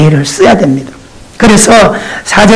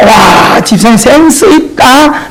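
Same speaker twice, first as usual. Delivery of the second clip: raised, drawn-out compliment; admiring compliment; slower than usual. Retold or imitated. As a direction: praise the outfit warmly. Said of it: "좀 이렇게 봐줘".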